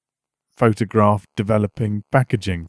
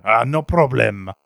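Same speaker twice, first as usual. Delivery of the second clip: put-on French accent; slower than usual.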